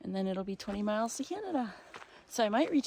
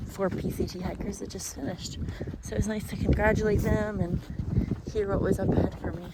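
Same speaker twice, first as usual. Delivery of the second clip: shouting over wind; 7 dB louder than usual. Real, not acted. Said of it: "I don't know if you can hear me over this wind".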